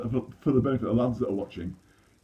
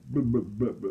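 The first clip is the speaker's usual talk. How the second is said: stammering; faster than usual. Retold or imitated. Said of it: "terrible stammer".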